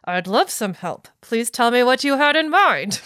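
forced polite words through gritted teeth; strained fake-sweet, teeth clenched. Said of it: "said through your clenched teeth".

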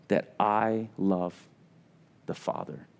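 slow, breathy whisper fading to nothing; a slow, reverent whisper of Jesus' words; hushed whisper. Acted. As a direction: let the words sink into a whisper. Jesus' words, preacher drops to hush.

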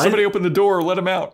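high, loud hammed-up shout; mock panicked shout. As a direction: yell for help in fake terror. Hammed-up panic about the dummy.

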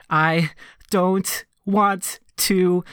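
put-on a slow, high, wavering little-kid cry, breaking into a laugh; a hint of childish sobbing, played half for laughs; tearful child's plea. Five-year-old telling parents through tears, mock sob.

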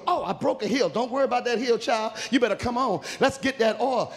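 lightly voiced fretful girls; acted hurried girls. Girls hurrying, one breaks a heel.

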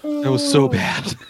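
high slow laughing squeal. Real, not acted. Laughing at own bit.

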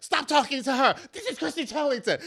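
high, loud mock bodyguard scolding; bossy bodyguard. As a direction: shoo people off like a self-appointed guard. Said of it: "And I'd be like".

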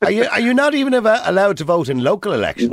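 can't believe he isn't allowed; shocked, rising disbelief; incredulous. Real, not acted. Host incredulous caller can't vote.

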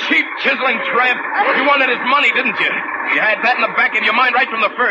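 high, raging threats; vengeful fury. Acted. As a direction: spit out the threats. Killer threatens her.

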